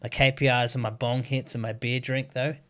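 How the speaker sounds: loud, cocky retold report; mock boastful rant. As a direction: brag about the failure loudly.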